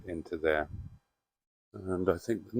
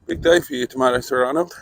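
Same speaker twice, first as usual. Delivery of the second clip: talking to a pet; 6 semitones higher, 7 dB louder, faster than usual. Acted. Talking to the car.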